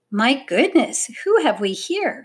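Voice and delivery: high, gentle wondering; lilting, kindly lady's question; gently surprised. A narrator's reading. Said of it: "she asked gently".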